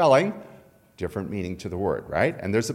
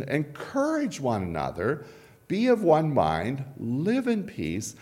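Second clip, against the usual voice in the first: scripture reading; 2 semitones higher than usual. Acted. Reads scripture aloud.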